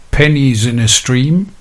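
reciting haiku verse, lifting at the line end; poem recitation. Shown as a demonstration. Presenter reciting English haiku strophes to radio listeners, measured verse reading. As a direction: read it out as verse, pitched a little up.

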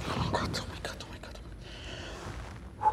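breathless frightened whisper; panicked whisper. Acted. Man whispers in panic over the collapsed woman.

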